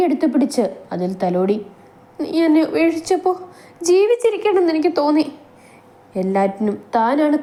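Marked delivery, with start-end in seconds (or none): 2.2-5.3 hurt reproach. Acted. Wounded Naishu reproaching Shan.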